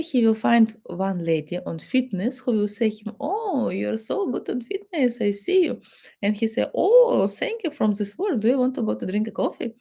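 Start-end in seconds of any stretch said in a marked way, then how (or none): 3.2-5.8 high, admiring coo; flirty gym lady. Pretend. Lady at the gym flattering the husband, high admiring coo. 6.7-9.7 high, delighted and quick; flattered husband. Pretend. Husband thanking the gym lady, high, quick and delighted.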